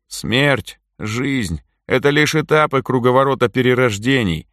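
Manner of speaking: exhaled. A narrator's reading. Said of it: "выдохнул Митька".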